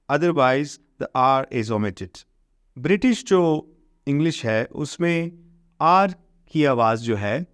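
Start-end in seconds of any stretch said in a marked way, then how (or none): 0.1-2.2 slow, careful reading of the English rule; slow textbook reading. Shown as a demonstration. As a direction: read the rule out word by word for the class. Reads textbook rule slowly. (انگریزی قاعدہ آہستہ آہستہ پڑھ کر سنانا)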